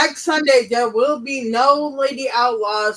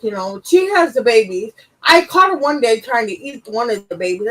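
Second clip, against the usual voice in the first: ordinary talk, nothing marked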